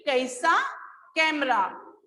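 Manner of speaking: कैसा said as ka-isa with a split ai; teacher voicing कैसा and कैमरा with a light a-i glide; ai sound shown. Shown as a demonstration. Teacher shows pupils the ai sound, carefully pronounced. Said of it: "थोड़ा sound अलग change हो जाता है इसका".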